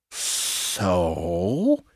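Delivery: single word hissed like a snake. Narrator reading a fable, the snake answering the mouse, hissed. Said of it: "Hissed the snake".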